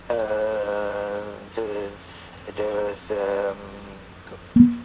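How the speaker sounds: halting, broken-up mumble; mumbling. Real, not acted. AI character losing track mid-reply to caller, halting mumble. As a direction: lose the words into a mumble. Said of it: "you suddenly start mumbling".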